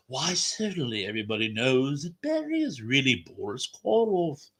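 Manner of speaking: a deliberately bad stab at a creepy film star; Boris Karloff impression. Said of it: "probably the worst Boris Karloff impression".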